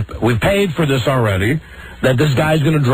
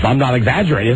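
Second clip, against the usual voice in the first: ordinary talk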